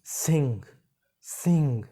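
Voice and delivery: सिंग ending on a nasal ng through the nose; सिंग with a ringing nasal ng. Shown as a demonstration. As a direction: let air flow through the nose at the end of सिंग. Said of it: "मैं यहाँ पे मैं बताता हूँ".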